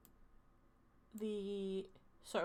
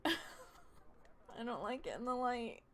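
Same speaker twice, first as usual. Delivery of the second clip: chuckling through the words; laughing; 2 semitones higher, slower than usual. Real, not acted. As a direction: laugh as you say it. Laughing at colour.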